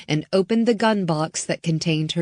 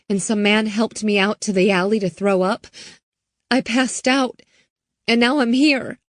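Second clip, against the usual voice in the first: put-on higher, quick frightened girl's voice; scared teen girl; 5 semitones higher, faster than usual. Girl telling Riley what happened, frightened and hurried. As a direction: rush the story out, barely holding together. Hannah recounts the kidnapping.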